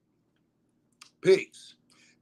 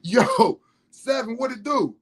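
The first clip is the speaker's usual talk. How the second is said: higher, laid-back Southern greeting; Florida friend's voice; 7 semitones higher, 3 dB louder, slower than usual. Retold or imitated. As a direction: greet like a Florida homie, pitched up. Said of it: "he said".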